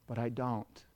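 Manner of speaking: softly reassuring, dropped low; a hint of God's gentle denial, hushed and low; tender God. God reassures those who think he hates them, low, gently. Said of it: "This is God saying".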